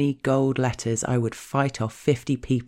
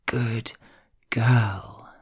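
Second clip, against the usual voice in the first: two words set slowly apart; drawn-out praise. Retold or imitated. Partner rewarding the speaker in bed, drawn-out praise. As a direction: pause after the first word, then let the second stretch.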